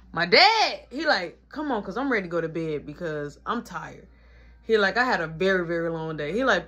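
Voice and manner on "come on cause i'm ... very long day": tired dad. Retold or imitated.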